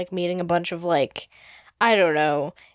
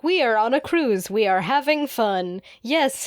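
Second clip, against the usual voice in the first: slightly raised, stilted mock-cheery voice; mesmerized passengers; 4 semitones higher than usual. Humans on the cruise speaking in unison, blankly cheerful. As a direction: recite it like blank, programmed vacationers. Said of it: "their expressions blank".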